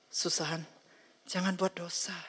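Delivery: soft, quiet divine warning; gentle warning. Acted. God gently warns Susan against sin, softly. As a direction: softly caution the child not to sin. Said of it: "Dengan cara halus".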